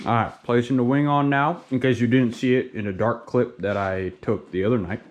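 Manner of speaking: talking while chewing chips; mouth full. Real, not acted. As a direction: speak around a mouthful of chips. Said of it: "Sorry, I'm eating some chips".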